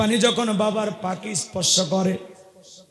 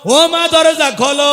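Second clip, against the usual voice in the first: louder, higher, slow pleading call; drawn out and higher, begging her to answer; desperate call; 5 semitones higher, 5 dB louder than usual. Acted. Son begging his dead mother to open the door, loud drawn wail.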